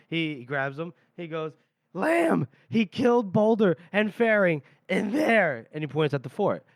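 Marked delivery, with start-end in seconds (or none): 1.9-5.7 retold urgent accusation. Panicked accusation to the general.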